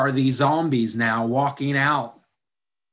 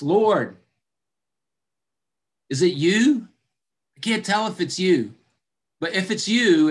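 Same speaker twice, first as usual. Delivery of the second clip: Peter calling out; 4 semitones higher than usual. Acted. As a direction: call out with nervous courage. Peter calls from the boat.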